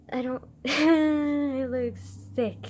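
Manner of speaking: slow, wobbly words through tears; laughing through real tears; teary laugh. Real, not acted.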